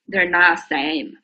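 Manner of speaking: They're not same said slowly word by word; teacher stressing that the two words differ; slow emphatic. Shown as a demonstration. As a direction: spell it out slowly for the class. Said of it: "而且重音也不一样".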